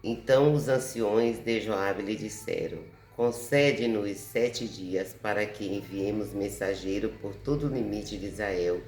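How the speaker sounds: measured Bible reading with emphatic phrase openings; scripture reading. Acted. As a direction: read the verse aloud, firmly announcing each phrase. Reads the Bible verse aloud. (leitura bíblica em voz alta)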